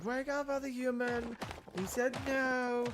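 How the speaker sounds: very high whiny cat voice; tattling cat. Retold or imitated. Cat tattling to the sleeping dad, high whine. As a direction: whine to wake the other human. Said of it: "start meowing. Like".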